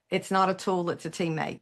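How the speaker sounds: correcting the word tool to teammate; stress on not. Shown as a demonstration. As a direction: punch NOT, let teammate fall. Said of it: "I love the term".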